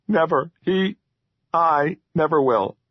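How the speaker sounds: high earnest troll vow. A narrator's reading. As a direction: swear it like an eager little creature.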